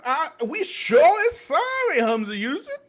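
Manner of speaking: sarcastic mock apology; mock servile apology. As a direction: ham up a grovelling apology.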